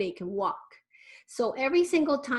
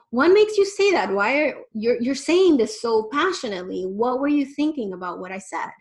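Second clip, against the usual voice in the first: curious and engaged; 2 semitones higher, 7 dB louder than usual. Shown as a demonstration. Parent modelling eager curiosity to a passionate teen. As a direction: ask with big open-hearted interest. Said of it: "and just go".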